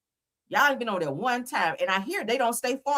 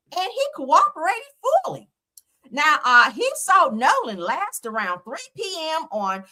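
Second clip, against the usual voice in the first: mock Becky voice; 3 semitones higher than usual. Mocking the judge's statement in a mock Becky voice. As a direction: read it like a smug prissy lady. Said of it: "I gotta say it in my Becky voice".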